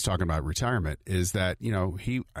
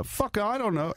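high imitation of a singer; 11 semitones higher, slower than usual. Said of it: "he was saying".

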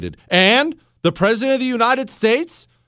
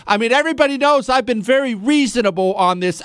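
mock politician; 3 semitones higher, faster than usual. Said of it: "they'll say things all the time like".

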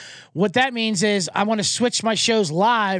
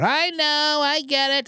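mock polite owner; 8 semitones higher, slower than usual. Mocking the other dog owner.

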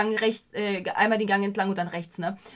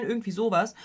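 ordinary delivery

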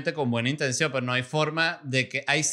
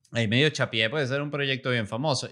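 usual speaking voice

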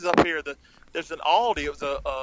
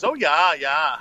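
mock Minnesota accent; 3 dB louder, much slower than usual. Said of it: "You're starting to sound like him".

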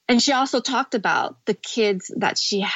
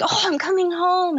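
higher, eager mock excitement; light, hopeful homecoming cry; excited; 8 semitones higher than usual. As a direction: imitate your own giddy hope. Hopeful arrival in Cambodia.

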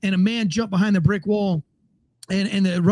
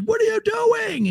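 puzzled chef; 13 semitones higher, slower than usual. Retold or imitated. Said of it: "And the chef was like".

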